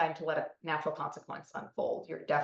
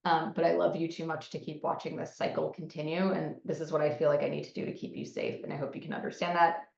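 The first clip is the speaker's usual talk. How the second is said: steady, loving firmness; calm tone. Acted. Parent answering a furious kid, calm and loving. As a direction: answer the outburst evenly, without rising to it. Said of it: "in kind of that calm tone".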